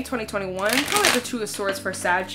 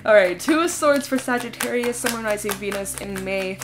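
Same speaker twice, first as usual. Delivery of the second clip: blocked nose, talking through it; stuffy nose. Real, not acted. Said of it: "I'm getting very stuffed up all of a sudden".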